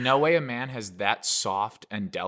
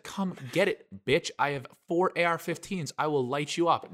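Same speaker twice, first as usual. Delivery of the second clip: tough talk; 4 semitones higher than usual. Pretend. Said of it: "No, I didn't actually say that".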